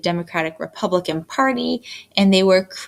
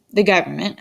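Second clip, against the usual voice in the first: air quotes; faster than usual. Real, not acted. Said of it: "I say that with air quotes".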